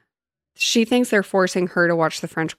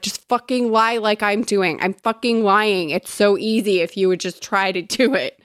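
retold freak-out; 3 semitones higher than usual. Prisoner trying to help the French girl, retold exasperated urging. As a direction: urge her in mock exasperation, easing toward the end. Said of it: "like, freak out and want to help".

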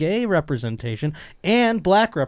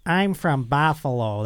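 Buffalo accent. Shown as a demonstration. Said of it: "Buffalo accent demo".

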